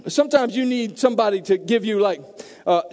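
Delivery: ordinary talk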